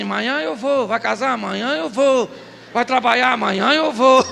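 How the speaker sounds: lilting singsong imitation of the bird; mock bird call. Preacher mimicking the Bacurau bird's call in a lilting singsong. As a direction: chant it like the Bacurau bird calling. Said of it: "faz um som que a gente diz".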